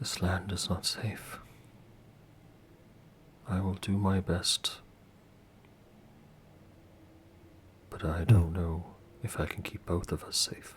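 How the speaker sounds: intimate, close-in stage whisper, as if at the ear. Voicing Agatha, who speaks to a player in his head: whispering in your ear. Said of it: "whisper in your ear".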